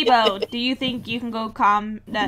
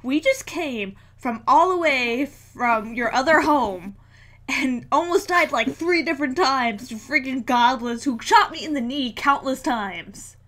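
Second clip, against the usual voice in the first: mad lecture. Acted. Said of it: "visibly mad at the dragon. I'm like".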